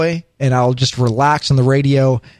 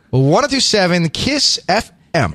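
slow, drawn-out DJ announcement; radio station ID; slower than usual. Pretend. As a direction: sell the station like a DJ. Mock station ID.

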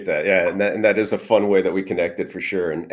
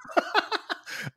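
laughter; 10 dB quieter than usual. Real, not acted. Puppet show joke.

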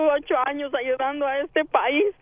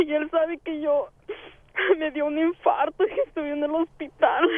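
words broken by sobs; real tearful voice; crying while speaking. Real, not acted. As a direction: fight back tears as you explain. Mother of missing son.

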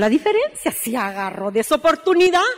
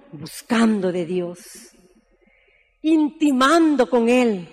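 slow emphatic; 2 semitones lower, slower than usual. Acted. Preacher answers her own question.

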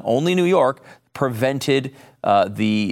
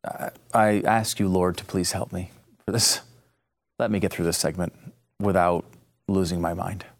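low, quiet prayer for patience; weary plea; 6 semitones lower, 5 dB quieter than usual. Real, not acted. Prays for patience before segment.

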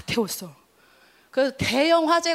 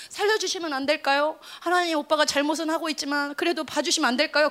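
timid plea. Retold or imitated. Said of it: "전에는".

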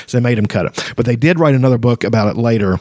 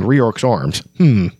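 story narration. A narrator's reading. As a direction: read the scene like an audiobook. Reads the novel aloud.

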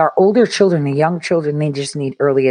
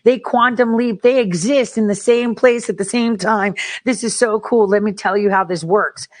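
higher-pitched, geeky excitement; entusiasmo apasionado; 5 semitones higher than usual. Acted. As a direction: gush like a teacher thrilled by the subject. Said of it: "if you're not passionate about chemistry".

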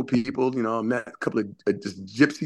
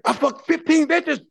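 mock bragging guy; 13 semitones higher, slower than usual. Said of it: "And then he's like".

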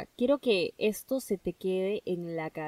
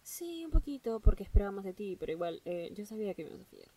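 unbothered. Pretend. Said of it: "Esa es la mentalidad que tienes que tener".

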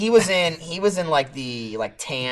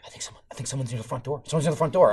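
hurried, low, hushed warning; whispering; 4 semitones lower, 8 dB quieter, faster than usual. Retold or imitated. Wife warning husband about the front door, whispering. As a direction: imitate whispering under the breath. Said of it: "whispering to me".

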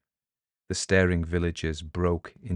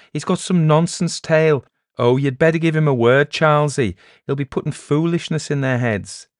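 raised, urgent tattling; agitated old villager; 8 semitones higher, 7 dB louder than usual. Acted. Old Juan urging Charlesy to deal with the peddler, agitated. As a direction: report trouble to the village elder.

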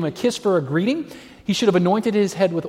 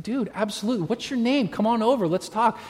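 welcoming; 4 semitones higher, 5 dB quieter than usual. Retold or imitated. Welcoming a man begging.

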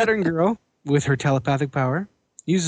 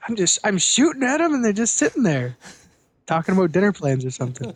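frustrated Lightning Lad; 4 semitones higher than usual. Retold or imitated. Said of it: "Lightning Boy. He's like".

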